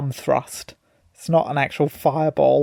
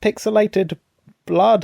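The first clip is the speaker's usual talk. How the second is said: high-pitched mock alarm; mock panic; 6 semitones higher, slower than usual. Recalling the old panic over Mortal Kombat, mock panic. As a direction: imitate a public scare, lightly panicked. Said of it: "maybe the panic back in the day".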